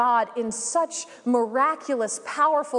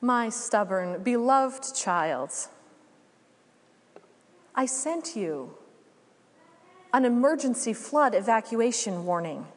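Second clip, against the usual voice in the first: voice of God. Acted. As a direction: speak gently to a stubborn beloved child. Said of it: "the voice of God says".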